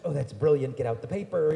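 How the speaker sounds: put-on loud, delighted girlfriend; excited schoolgirl. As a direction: cheer the idea on loudly. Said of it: "first girl's like".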